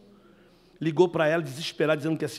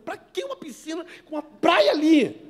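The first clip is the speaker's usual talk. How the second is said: high, loud amazed disbelief; loud mock astonishment; incredulous; 12 semitones higher, 8 dB louder than usual. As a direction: marvel at the absurd luxury. Retelling shock at rich man's home.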